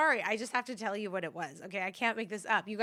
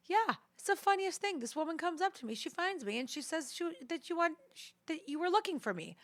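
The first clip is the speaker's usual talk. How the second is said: imitating dad; 9 semitones higher than usual. Daughter mimicking her dad calling about the funny woman, high and amused. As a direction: tell it like a chuckling unaware dad. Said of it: "he goes".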